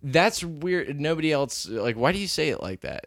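acted-out incredulous question; puzzled challenge. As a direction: call out an odd pronunciation. Retold teasing challenge to girlfriend.

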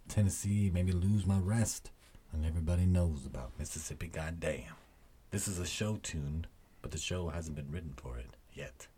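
dramatic lyric reading. Pretend. The speaker reads a singer's protest song to listeners, spoken-word intensity. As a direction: read the protest lyrics with rising force. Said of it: "he's gonna read".

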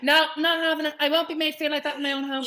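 mock indignant. Mum indignant retold.

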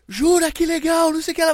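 high, delighted squeal of an excited officer. Retold or imitated. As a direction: gush like a thrilled immigration officer. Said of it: "ele ficou tão animado conversando comigo".

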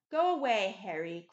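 sharp loud cry, pitch jumping up; cried out. A narrator's reading. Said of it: "cried the lad".

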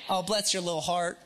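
lightly put-on old Southern accent. Shown as a demonstration. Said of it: "with an old Southern accent".

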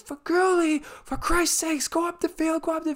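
very high, strained mock scream at a player; imitated screaming fan. Man next to me screaming at Feghouli, very high mock yell. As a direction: ham up an angry fan yelling at the pitch. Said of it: "the man next to me kept screaming".

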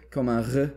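"R" sounded as the Arabic letter, not rolled; Arabic-style R. Shown as a demonstration. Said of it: "dans l'arabe".

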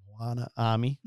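drawled Moana Army, broad Bogan accent; slow, broad Bogan Australian accent. Shown as a demonstration. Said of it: "I always say it's my Bogan accent".

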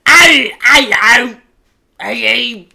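loud, high Cockney shout; hammy Cockney accent calling out. Retold or imitated. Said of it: "in my Cockney accent".

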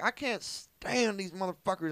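high, slow mock rant; ranting Texan uncle. Nephew mimics bigoted uncle complaining, slow high mock rant. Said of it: "he's like".

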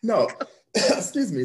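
coughing, choking a little; sputtering after a sip; choking on a drink. Real, not acted. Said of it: "I'm choking a little bit".

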